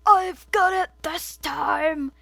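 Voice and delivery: slow, proud and gleeful. Acted. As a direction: announce it like a triumph. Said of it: "he said gleefully".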